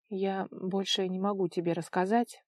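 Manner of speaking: ordinary delivery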